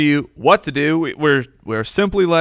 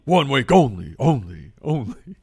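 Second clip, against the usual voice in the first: fading echo, softer each repeat; echo effect; 4 dB quieter than usual. Pretend. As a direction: trail off like a canyon echo. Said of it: "Very nice echo, Mike".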